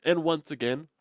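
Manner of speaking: ordinary delivery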